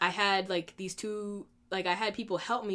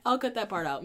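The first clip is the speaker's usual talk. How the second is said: laughing. Real, not acted. Laughing after phone interruption.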